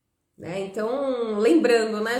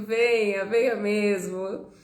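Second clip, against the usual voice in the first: ordinary talk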